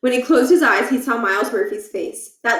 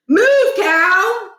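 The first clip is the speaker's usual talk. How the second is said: frustrated command; 10 semitones higher, 7 dB louder than usual. Acted. Pushing cow.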